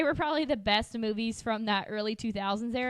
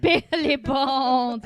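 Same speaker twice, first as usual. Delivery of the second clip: laughing; 6 dB louder, much slower than usual. Real, not acted. Echoing name laughing.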